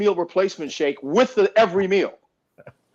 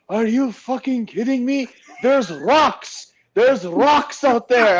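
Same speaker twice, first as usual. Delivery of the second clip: higher, slow scoffing complaint; imitating Nasser; 5 semitones higher, slower than usual. Retelling Nasser refusing to swim, mock complaining. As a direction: scoff at the ocean like it's a threat. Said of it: "He goes".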